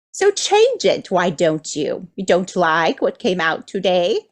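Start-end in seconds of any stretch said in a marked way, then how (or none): 0.1-1.1 playful urging. Acted. Urging listeners to act.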